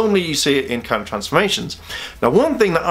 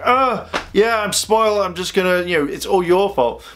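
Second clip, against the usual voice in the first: high bratty little-sister voice, easing down; bratty mock whine; 4 semitones higher than usual. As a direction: imitate a spoiled sister shifting the blame.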